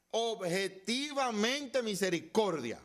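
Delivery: OBJETIVAMENTE stretched out, loud and high; "Objetivamente misericordia" proclaimed high, loud and drawn out; emphatic insistence. Real, not acted. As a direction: hammer out "Objetivamente misericordia" slowly at full force. Preacher corrects the congregation, insisting.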